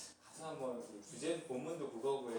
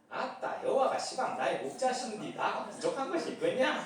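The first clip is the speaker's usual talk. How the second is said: laughing Jeolla dialect exclamation; playful Jeolla dialect reading; 6 semitones higher, 5 dB louder than usual. Pretend. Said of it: "전라도 버전".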